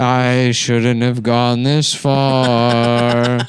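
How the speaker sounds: put-on slow, high, laughing old man rant; drawn-out crazed old man.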